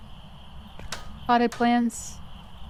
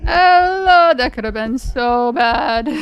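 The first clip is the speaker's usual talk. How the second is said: relieved exclamation; 6 dB louder, slower than usual. Real, not acted. Relief after close call.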